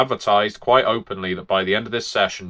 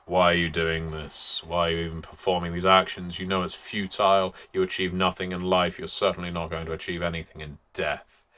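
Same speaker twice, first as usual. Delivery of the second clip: slightly softer, weary and defeated; resigned depressive shadow; 2 semitones lower, 5 dB quieter than usual. Shown as a demonstration. Game master voicing the Stormcrow shadow, mildly resigned and weary. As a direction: sigh it out like nothing matters. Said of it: "who's gonna be more resigned".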